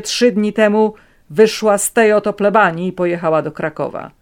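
loud, steady, insistent; firm old man. A narrator's reading. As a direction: lie with complete conviction. Grandfather lies firmly.

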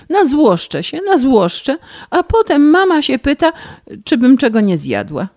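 high, tearful whining complaint; rozżalona skarga. Acted. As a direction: whine through tears about being spoiled. (bratanica żali się stryjowi, płaczliwie i wysoko)

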